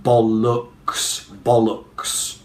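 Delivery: "bollocks" as BOL-uhks, first slowly split, then joined; "bollocks" with the second O reduced to uh; schwa in second syllable. Shown as a demonstration. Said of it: "have to say it as uh".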